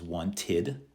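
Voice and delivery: WANTED slowly in two syllables, want-id; id ending. Shown as a demonstration. Teacher modelling verbs with the id sound, slow id ending. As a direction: stretch out WANTED with a clear id. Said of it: "have the id sound at the end".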